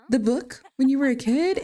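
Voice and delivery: high-pitched surprised question, lightly acted; surprised mom. Mom reacting to an old book from her son, surprised. Voices mom's surprise at gift.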